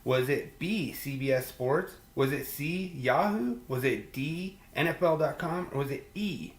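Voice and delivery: lightly voiced quiz-show host reading options. Host putting the fantasy question to listeners, quiz read.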